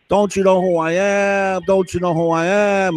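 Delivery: hammed-up diva demanding recognition; mocking drama queen. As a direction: imitate an indignant drama queen. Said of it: "a hormonal drama queen".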